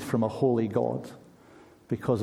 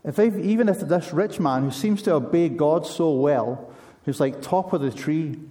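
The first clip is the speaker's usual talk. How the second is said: higher and louder, hammed-up crowd alarm; mock panic; 4 semitones higher, 4 dB louder than usual. Crowd fretting over the rich man, mock panicked and louder. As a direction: rattle it off like a panicked onlooker. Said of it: "the surrounding crowd do go into a bit of panic".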